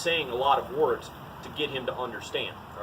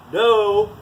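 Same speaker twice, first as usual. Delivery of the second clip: a sharp, loud, higher no; firm no; 5 semitones higher, 9 dB louder than usual. Shown as a demonstration. Trainer showing a firm no to his dog. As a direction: bark out no like a real correction. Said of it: "That all has a different inflection".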